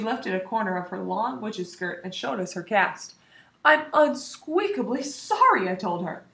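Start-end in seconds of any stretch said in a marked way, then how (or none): 3.6-5.7 squeaky sorry. Acted. Hamster apologizes.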